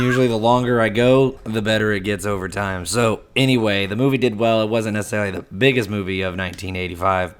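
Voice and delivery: raspy voice from a cold; hoarse voice. Real, not acted. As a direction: push through a croaky throat. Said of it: "frog voice".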